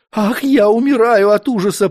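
trembling exclamation. A narrator's reading. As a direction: gasp it out like a terrified princess. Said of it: "воскликнула трепещущая княгиня".

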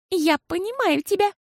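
put-on high, childlike voice for Fiasol; little girl voice. A narrator's reading. Girl Fiasol talks to her mama, high childlike voice.

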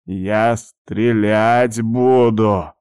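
put-on slow, quavering old man's threat; anxious, shaky old voice threatening. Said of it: "в его дребезжащем голосе появились тревожные нотки".

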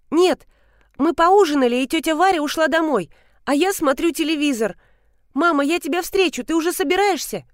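put-on a small boy explaining where he lives; eager child. A son tells his mother the way home, eager. Narrator voices child Vanya.

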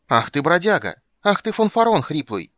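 high, loud screeching; screaming abuse. Acted. Blonde screaming abuse from the balcony. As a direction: scream down and spit.

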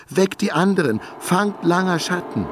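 full-throated shout. A narrator's reading. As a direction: bellow the order to wake everyone. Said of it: "rief sie aus voller Kehle".

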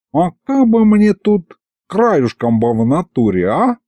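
slow voice from the corridor; from another room. Acted. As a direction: call in from the hallway. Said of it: "голос Аристофана из коридора". (голос из коридора)

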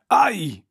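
a short yelp, pitched high; a short yelp from a sword prick; sharp cry of pain. Acted. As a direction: cry out as the blade stabs the shoulder. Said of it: "скрикнув Джезаль".

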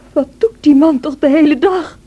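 an angry jab at her husband; bitter outburst. Acted. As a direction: flare up in resentment. Cathy complains bitterly about Edgar.

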